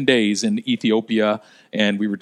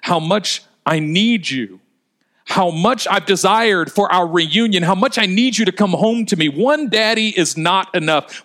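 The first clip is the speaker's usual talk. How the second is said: impassioned pleading; 5 semitones higher than usual. Acted. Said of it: "as if she was saying".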